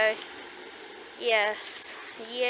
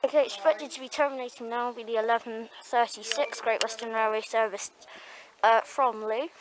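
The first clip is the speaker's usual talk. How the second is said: talking through a face mask; muffled voice behind a mask. Real, not acted. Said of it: "my voice is a little muffled. I am wearing a face covering".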